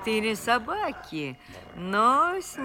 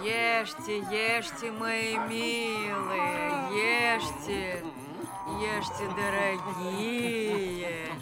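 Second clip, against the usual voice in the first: cooing to cats; 3 semitones lower, 6 dB quieter, slower than usual. Acted. Old woman feeding her cats.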